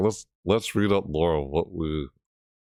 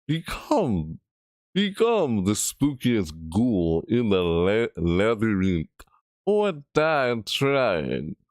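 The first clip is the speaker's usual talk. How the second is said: mock spooky read; slower than usual. Reading spooky event title.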